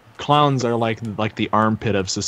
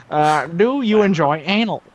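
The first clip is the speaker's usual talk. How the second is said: slow, higher dramatic reading; slow put-on voice; 6 semitones higher than usual. Shown as a demonstration. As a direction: ask it slowly in a silly voice. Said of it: "in that voice".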